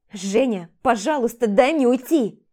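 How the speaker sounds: loud, desperate plea; pleading. Acted. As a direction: beg him. She begs release. (громкая отчаянная мольба)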